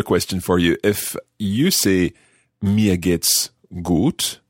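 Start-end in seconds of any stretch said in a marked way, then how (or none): 2.6-4.4 very slow, drawn-out "Mir geht's gut"; slow German phrase. Shown as a demonstration. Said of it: "learner tries German phrase".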